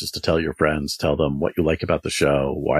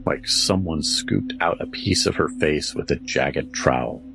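slow, eerie campfire storytelling; spooky story narration. Acted. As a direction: draw the listener into a ghost tale. Spooky story read over music.

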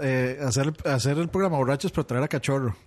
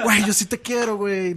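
put-on high, mushy drunk affection; sentimental drunk; 5 semitones higher than usual. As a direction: imitate a friend drunkenly declaring love. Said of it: "se emborrachó él y".

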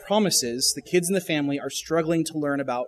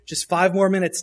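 put-on begging kid; 3 semitones higher, 6 dB louder than usual. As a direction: plead like a kid who won't leave. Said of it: "What do they say?".

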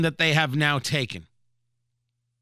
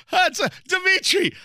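calling out to Dmitry; 13 semitones higher than usual. Acted. Mock Russian official calling to his colleague, shouting. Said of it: "I assume that's how Russians laugh".

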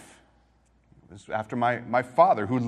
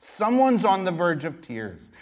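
fervent preaching; 5 semitones higher, 5 dB louder than usual. Real, not acted. Pastor urging congregation to reach out.

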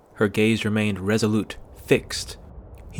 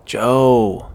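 tender and impatient; 7 dB louder than usual. A narrator's reading. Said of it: "both tender and impatient".

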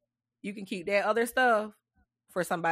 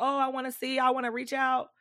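higher mock well-wisher voice; mimicking eager folks; 6 semitones higher than usual. Host quoting folks who wanna reach out, lightly mocking.

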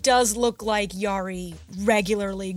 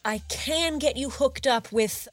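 chatty, upbeat salesman voice; eager shopkeeper; 5 semitones higher than usual. Acted. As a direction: pitch the goods like a friendly bro.

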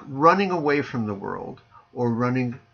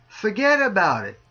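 put-on New Jersey accent; 3 semitones higher than usual. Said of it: "as they say in New Jersey".

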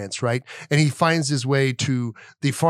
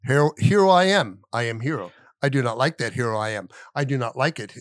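Dr. Seuss rhyme. Acted. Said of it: "Oh, it's like this".

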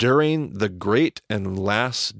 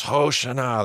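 higher called-out cry; crowd cry; 4 semitones higher than usual. Retold or imitated. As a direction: lift it like a crowd cheer. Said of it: "everybody shakes their palm fronds".

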